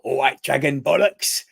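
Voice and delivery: loud imitation of a wrestler's yell; mock screaming persona. Fan imitating a wrestler's screaming persona, mock yell. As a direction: holler it as his ring character. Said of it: "the screaming and the whole".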